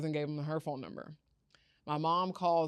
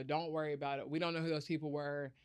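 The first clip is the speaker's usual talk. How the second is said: retold reassurance; 2 semitones lower, 6 dB quieter than usual. Grandparents reassure her, retold.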